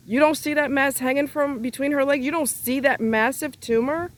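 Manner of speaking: incredulity. Real, not acted. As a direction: demand how anyone could miss it. Incredulous rant at the friend.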